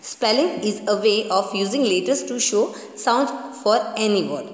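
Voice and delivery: slow reading aloud. Shown as a demonstration. Teacher to children reading the textbook definition, slowly. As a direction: read the definition word by word, very slowly.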